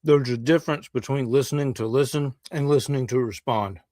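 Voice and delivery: talking through a mouthful of food; mouth full. Real, not acted. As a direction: speak around a bite. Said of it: "speak with my mouth full".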